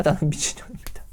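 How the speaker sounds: hushed whisper of the cry; woman's cry fading to a whisper. Acted. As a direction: breathe it out, spent.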